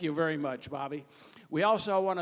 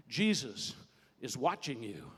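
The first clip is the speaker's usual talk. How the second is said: mysterious voice; 5 semitones lower than usual. Acted. Comedian voices what the burglar hears, low mysterious voice. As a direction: drop low for an unseen watcher. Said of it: "he hears it again".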